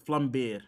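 non-American Flambeer, first syllable like "flum"; native pronunciation. Shown as a demonstration. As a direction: say Flambeer the home way, as "flum-beer". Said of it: "I should say it the way we".

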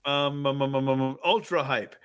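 low flat drone; monotone voice. Acted. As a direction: say it dead flat. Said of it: "he says in a monotone voice".

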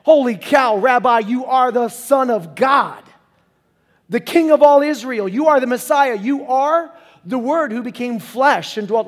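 loud, slow, overwhelmed declaration; awed outburst. Acted. Nathanael realizing who Jesus is, loud awe. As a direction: blurt it out in awe. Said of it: "he said".

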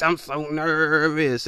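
slow mock-nervous drawl. Imitating someone nervous whenever he speaks, slow nervous drawl. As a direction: stretch out the nerves, half-hearted. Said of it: "They get nervous".

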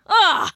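high, loud ugh; acted groan of exasperation; disgusted ugh. Groan inside an acted line of dialogue.

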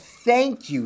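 high, squeaky little mouse; small high-pitched storybook mouse. A narrator's reading. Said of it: "he says in a little squeaky voice".

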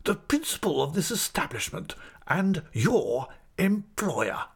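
high, slow, self-important delivery; pompous schoolmaster. Acted. Principal reminds his assistant who employs him, pompous. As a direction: spell out your rank slowly and haughtily. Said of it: "darting his head at him suddenly".

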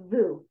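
vu with a clear voiced V first; V sound. Shown as a demonstration. Teacher corrects client who heard humming, clear V sound. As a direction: start "vu" on a buzzing V. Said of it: "make sure you have the V sound".

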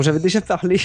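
put-on clumsy, lightly done Indian English accent; mock Indian accent, badly on purpose. Host teasing co-hosts with a poor Indian accent imitation. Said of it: "je fais très mal l'Indien".

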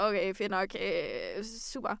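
deadpan disappointed okay, fading out; deflated irony. Retold or imitated. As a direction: mutter a let-down "super". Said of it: "sidder man der og tænker".

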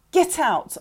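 sharp, high, loud command; yell. A narrator's reading. Girl ordering Annie from her room, yelling. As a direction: yell it to drive her away. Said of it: "I yelled".

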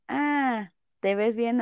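soft, easy and honest, no hesitation; just mean it gently; sincere compliment. Retold or imitated. Friend honestly telling her friend she looks good, soft and sincere. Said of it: "la entonación que le das realmente te cambia".

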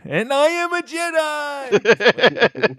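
slow, high booming declaration; dramatic Jedi voice. Acted. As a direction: proclaim it like an epic hero. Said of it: "I don't know if I did that right".

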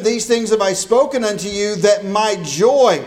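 fervent sermon delivery; preaching. Acted. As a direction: proclaim it to the congregation. Verse requoted in lively preaching.

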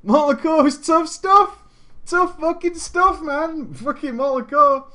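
high, loud hyped-up insistence; emphatic exclaiming. Real, not acted. Streamer stressing how tough the raid was, hyped.

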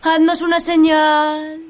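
slow, loud commanding call to spirits; seance medium. Acted. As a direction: summon the spirit, drawn out. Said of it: "intentaré alcanzar un estado de trance".

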